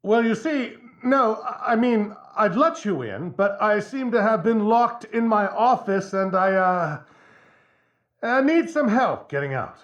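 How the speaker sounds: high, halting plea through a door; talking through door. Acted. Locked in, explains through the door.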